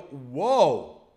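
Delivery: mock amazement, opening on a loud "whoa"; impressed native speaker. Native speaker hearing a learner's greeting, mildly amazed. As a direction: act lightly wowed. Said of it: "native speakers, they go".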